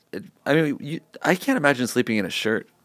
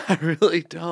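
laughing; 7 semitones higher than usual. Real, not acted. Laughing after being teased.

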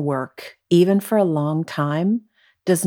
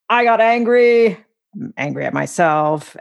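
angry self-talk; 3 semitones higher, 3 dB louder than usual. Retold or imitated. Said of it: "as you're continuing to navigate these".

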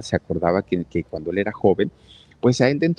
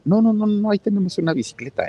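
hurried excited protest; 12 semitones higher than usual. Retold or imitated. Boss hurriedly objects in retold dialogue.

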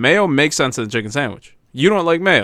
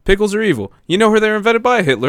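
high-pitched, heated accusation; angry rant; 8 semitones higher, 4 dB louder than usual. Real, not acted. Co-host ranting that pickles are evil, angry. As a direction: rail against it as pure evil. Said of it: "It's so angry".

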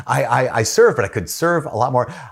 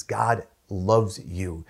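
slow, deliberate emphasis; 5 dB quieter, much slower than usual. Acted. Slow quiet emphasis after list.

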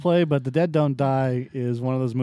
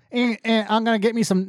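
higher, mock Massachusetts accent; bad Massachusetts accent; 5 semitones higher than usual. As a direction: play a bad actor faking Massachusetts. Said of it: "accent from Massachusetts".

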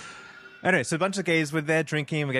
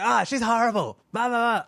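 high-pitched mimicry of a ranter; mocking complainer; 9 semitones higher, 3 dB louder than usual. Mimicking the man bad-mouthing Mariah, mocking complaint. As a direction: imitate his griping in a higher voice.

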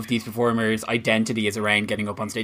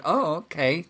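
higher, breezy sarcastic goodbye; dismissive brush-off; 7 semitones higher than usual. Retold or imitated. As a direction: wave her off with mock politeness. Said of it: "then it's like".

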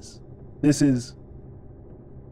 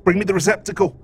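excited; 6 semitones higher, 3 dB louder than usual. Acted. Droid excited about eating.

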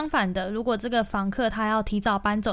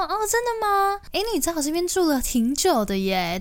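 imitating Mike; 8 semitones higher than usual. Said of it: "然后他就说".

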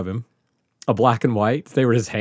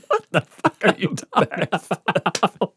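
incredulous; 7 semitones higher, slower than usual. Retold or imitated. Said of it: "I was like".

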